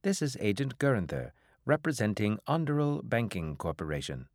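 lightly voiced official debt collector; bank agent. Bank agent calls a debtor captain, lightly officious. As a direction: announce yourself as a bank's agent. Agent introduces himself on a call.

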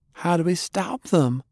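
put-on high, young and urgent question; rising, anxious and earnest; Faye's voice. A narrator's reading. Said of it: "Faye asked".

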